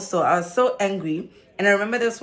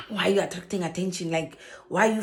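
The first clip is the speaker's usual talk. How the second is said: mom scolding; 4 dB quieter than usual. Retold or imitated. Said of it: "my mom is this kind of a person".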